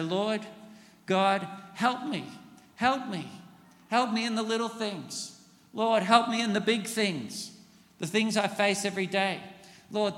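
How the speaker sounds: an earnest daily prayer for help; pleading prayer. Shown as a demonstration. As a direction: beg God for help sincerely.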